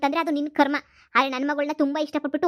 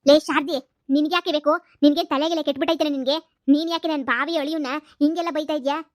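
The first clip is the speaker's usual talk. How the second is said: angry retort. Acted. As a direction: shout her down. Other mother shouts back at her.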